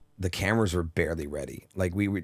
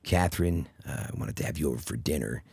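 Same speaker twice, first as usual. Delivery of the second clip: lower, softer Michael Douglas impression; put-on Michael Douglas voice; 3 semitones lower, 3 dB quieter than usual. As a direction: drop low and hushed, playing Michael Douglas. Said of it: "I was affectating my voice".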